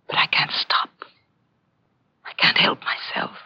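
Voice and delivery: whispered compulsion; whispering. Acted. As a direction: whisper it helplessly. Murderer's confession.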